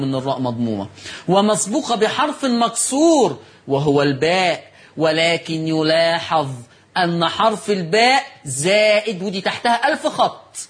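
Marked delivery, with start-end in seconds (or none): 1.3-9.2 slow, measured Classical Arabic read-aloud; formal commentary reading. Real, not acted. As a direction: read the note out deliberately, stretching the long vowels. Reads the written commentary aloud. (قراءة متأنية بالفصحى)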